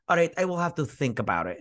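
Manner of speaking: put-on loose Italian accent drifting Eastern European; lightly put-on Italian accent; mock Italian accent. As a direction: attempt a rough Italian accent. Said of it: "how you're Italian accent sounds like".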